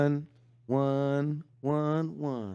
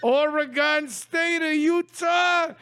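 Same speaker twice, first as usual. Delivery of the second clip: brash, hammed-up street taunts with shouts; Italian tough guy bit. Taunting the coach in a hammed-up Italian tough-guy voice. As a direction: needle him like a mouthy wiseguy. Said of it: "did that whole improv bit".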